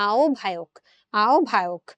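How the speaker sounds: আহ্বায়ক said as obbhayok; o-bh pronunciation. Shown as a demonstration. Teacher showing আহ্বায়ক to students. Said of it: "এখানেও কিন্তু আমরা ও ভ দেই".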